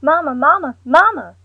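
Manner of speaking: loud high desperate calls; yelling for mother. A narrator's reading. Woman shouting to her collapsed mother, frantic yelling. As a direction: scream her mother's name to wake her. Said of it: "she began yelling".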